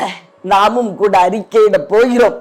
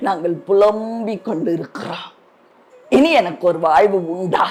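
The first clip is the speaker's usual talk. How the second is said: sorrowful prayer; 3 semitones lower, 5 dB quieter than usual. Real, not acted. Prayer drops to lament.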